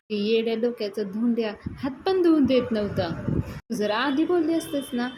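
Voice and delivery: mock exasperation in a retold squabble; acted indignant retort. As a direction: argue back as the put-out brother. Acted quarrel, man scolding back.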